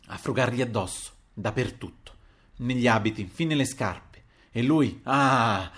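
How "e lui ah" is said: a slow, strangled cry breaking off the sentence; drawn-out anguished gasp; choked sob. Acted. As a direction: let the sob catch the ah in the throat. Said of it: "Il pianto, a questo punto, gli fece impeto alla gola".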